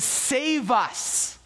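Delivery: high-pitched imitation of a crowd's cry. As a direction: plead aloud like the crowd, without full shouting. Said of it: "they're crying out".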